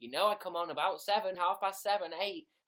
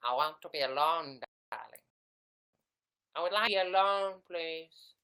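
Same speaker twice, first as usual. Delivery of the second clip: mock diva; 6 dB louder than usual. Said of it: "a quote".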